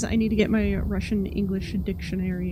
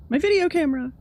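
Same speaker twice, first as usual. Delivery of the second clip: excited find; 6 semitones higher, 5 dB louder, faster than usual. Real, not acted. Finds her camera.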